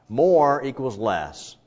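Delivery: each word laid down slowly; slow emphatic maxim. Real, not acted. Pastor concluding the passage for the congregation, slow and emphatic. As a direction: drive the point home, slow.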